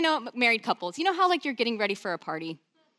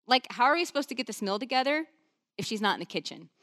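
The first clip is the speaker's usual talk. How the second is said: barging complaint; 2 semitones higher than usual. Retold or imitated. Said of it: "She just barges in and says".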